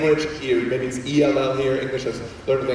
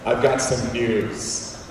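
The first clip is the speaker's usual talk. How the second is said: ominous mom; 3 semitones lower, much slower than usual. Retold or imitated. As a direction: draw it out like bad news coming. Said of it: "she says".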